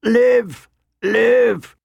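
high, squawking bird calls; crying raven. A narrator's reading. Raven flies to the commander's shoulder, crying out. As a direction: screech it like a talking raven.

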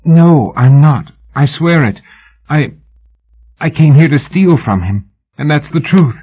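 a terrified woman swearing she's honest; strangled pleading. A narrator's reading. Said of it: "her voice strangled".

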